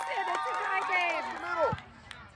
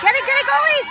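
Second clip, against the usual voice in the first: cheering shout; 4 semitones higher, 5 dB louder, much faster than usual. Real, not acted. Parent cheering at soccer game.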